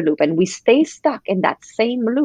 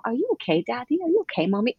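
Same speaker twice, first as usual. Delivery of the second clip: put-on child asking; 5 semitones higher, 5 dB quieter, faster than usual. Kids asking voiced.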